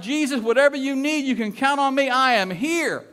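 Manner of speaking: high, loud, gushing pledge; enthusiastic. Acted. Excited first man pledging himself to Jesus, enthusiastic. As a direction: play the all-emotion volunteer, pitched high and loud. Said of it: "appreciates his enthusiasm".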